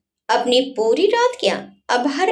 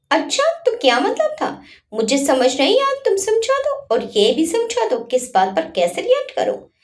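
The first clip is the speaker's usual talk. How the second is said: angry retort; 3 semitones higher than usual. Acted. Wife snaps angrily at husband after he calls her overreacting. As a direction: snap back at him, stung and angry. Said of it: "गुस्से में अधिराज का हाथ झटकते हुए कहा".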